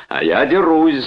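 high, loud roar. A narrator's reading. Brother grabs the suitcase, roaring. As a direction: roar back the challenge. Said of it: "заревел Чарльз".

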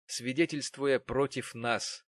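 slow solemn preaching tone; solemn address. A narrator's reading. Narrator addressing the wronged woman, slow and solemn. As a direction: intone it like a blessing.

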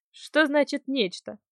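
slow, wary question; very cautious. Acted. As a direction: ask it warily, slowly. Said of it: "спросил он предельно осторожно".

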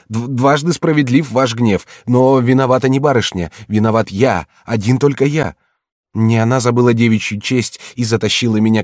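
громкая, высокая горячая мольба; умоляй спасти её, а не себя; отчаянная мольба. Acted. Ронин молит пощадить девушку. (громкая отчаянная мольба ронина)

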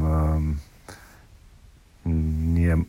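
usual speaking voice

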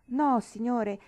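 high, loud exclaimed no; exclaiming. A narrator's reading. Nancy stopping Mr Weston from leaving, loud exclaim. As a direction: burst out to stop him leaving. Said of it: "esclamò lei".

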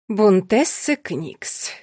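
slow, stately naming; majestic. Acted. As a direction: draw out each name like a queen. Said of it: "величественно произнесла она".

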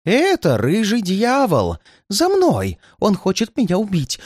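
high, gasped-out terror; panicked old man, high voice; terrified moan. A narrator's reading. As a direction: cry out that the pursuer is here. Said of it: "простонал он".

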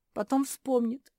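ordinary delivery, nothing marked

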